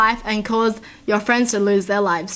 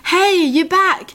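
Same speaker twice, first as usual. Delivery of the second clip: high, slow, drawn-out greeting from a street guy; lightly voiced homeless man calling out; voicing the homeless guy; 7 semitones higher, 3 dB louder, much slower than usual. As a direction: pitch up high and stretch it out, surprised to see you.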